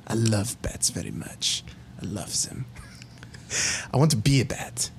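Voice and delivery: scientist confessing his transformation plan to the players; scheming villain monologue. Acted.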